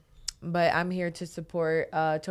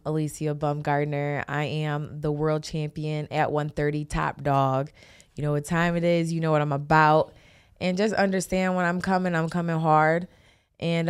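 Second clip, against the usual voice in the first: trash talk. Real, not acted. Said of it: "talk your shit".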